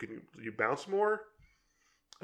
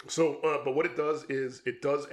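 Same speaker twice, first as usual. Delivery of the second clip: voice giving out; 3 semitones higher than usual. Real, not acted. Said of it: "sorry, I'm losing my voice here".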